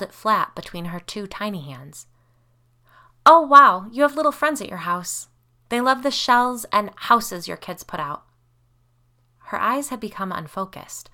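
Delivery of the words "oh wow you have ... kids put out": put-on high, loud excited little girl; wide-eyed wow, louder and higher; a child bursting with delight. A narrator's reading. Child fairy-seer delighted, relaying.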